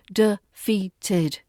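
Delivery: Defeated, each syllable given its place; de-fea-ted, evenly; three syllables. Shown as a demonstration. Teacher repeating defeated for learners. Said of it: "Three syllables for you".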